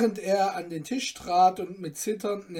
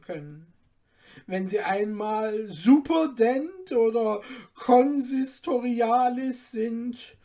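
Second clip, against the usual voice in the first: Jewish lender voice; 4 semitones higher than usual. Acted. Stefan posing as lender offering the student money, sly glee. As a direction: play the kindly lender, enjoying the role. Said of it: "als jüdischer Gläubiger ein mit heimlicher Freude".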